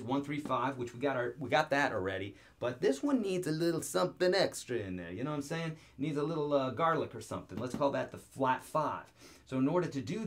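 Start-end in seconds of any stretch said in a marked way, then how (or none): 2.8-7.6 playful mock-Italian accent. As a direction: ham up a little Italian accent. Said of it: "I can talk in an, in an Italian accent".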